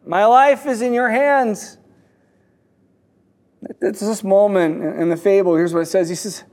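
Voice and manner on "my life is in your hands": higher-pitched mild mock yell. Dangling man reminding his rescuer, mild mock yell. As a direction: call up a reminder, not full force. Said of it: "The man yells up again".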